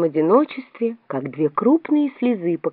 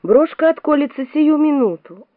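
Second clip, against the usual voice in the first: high, plaintive foreboding; moaning dread; 8 semitones higher than usual. A narrator's reading. The poor Queen foresees her brooch opening, high moan. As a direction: wail it in rising dread. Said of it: "простонала бедная королева".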